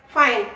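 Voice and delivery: "fine" for "find", no final D; final consonant dropped. Shown as a demonstration. Student showing an erased last letter, "fine" without its final D. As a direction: end "fine" on the N, no stop after it. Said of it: "erase the T sounds".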